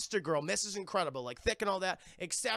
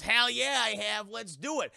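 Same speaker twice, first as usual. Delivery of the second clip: eager henchman; 3 semitones higher, 6 dB louder than usual. Retold or imitated. Alan Tudyk hyped up, answering the Nazi doctor. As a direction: bark it out, ready for action. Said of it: "He goes".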